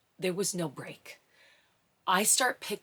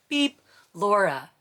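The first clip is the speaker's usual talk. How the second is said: imitated beeper; 3 semitones higher, 7 dB louder, slower than usual. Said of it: "the first time".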